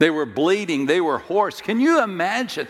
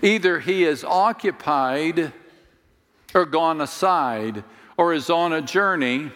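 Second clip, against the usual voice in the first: mocking Elijah. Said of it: "Elijah mocked them".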